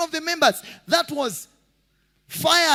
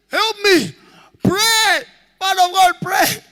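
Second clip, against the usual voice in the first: urgent, louder begging; desperate plea; 2 semitones higher, 4 dB louder than usual. Retold or imitated. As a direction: beg the man of God to pray, pressing hard. Thief begs pastor, police chasing.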